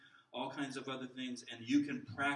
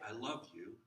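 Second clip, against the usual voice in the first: bored; 3 semitones lower than usual. Shown as a demonstration. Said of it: "and I'm bored".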